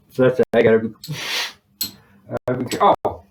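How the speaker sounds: speech slurred by swollen gum; talking funny. Real, not acted. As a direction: talk around a sore swollen gum. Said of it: "I'm talking funny even".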